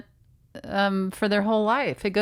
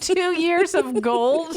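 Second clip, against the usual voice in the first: incredulous, cracking up; laughing disbelief; 8 semitones higher than usual. Real, not acted. Host laughing back at an absurd wizard demand. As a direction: repeat it high through a laugh. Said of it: "Oh my God".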